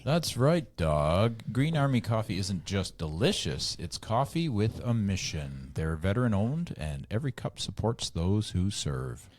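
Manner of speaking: scripted co-host sponsor pitch; ad read. Acted.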